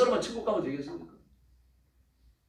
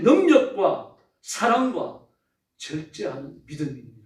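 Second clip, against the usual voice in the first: slow, drawn-out stress on 능력과 사랑과; emphatic scripture; 5 dB louder, much slower than usual. Acted. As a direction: stretch each word of 능력과 사랑과 slowly.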